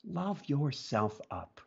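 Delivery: lingering on love; tender. Real, not acted. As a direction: let it land gently. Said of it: "one last thing for people".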